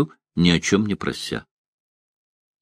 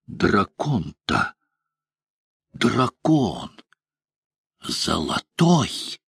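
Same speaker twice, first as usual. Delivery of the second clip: awed; 5 dB quieter, much slower than usual. A narrator's reading. Bogold awed by golden dragon.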